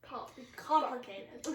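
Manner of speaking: drawn-out syllables; slow stretched out. Shown as a demonstration. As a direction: say it slowly, syllable by syllable. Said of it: "You can make them complicated".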